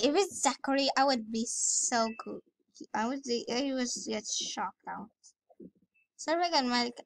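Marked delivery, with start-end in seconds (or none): 0.0-5.1 tight, pinched throat. Real, not acted. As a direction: squeeze the voice thin. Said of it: "a bit pinched voice".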